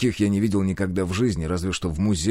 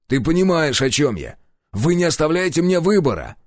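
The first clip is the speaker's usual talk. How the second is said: louder, higher protest; angry outburst; 8 semitones higher, 4 dB louder than usual. A narrator's reading. Hero furiously protests having no choice. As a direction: shout out your frustration.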